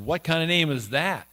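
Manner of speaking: mildly scornful challenge; mock him with a touch of disbelief; lightly acted derision. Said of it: "mocked him, said".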